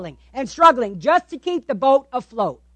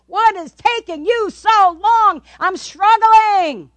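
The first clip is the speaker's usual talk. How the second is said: exasperated plea; 6 semitones higher, 4 dB louder, slower than usual. Acted. Cries out to God, acted.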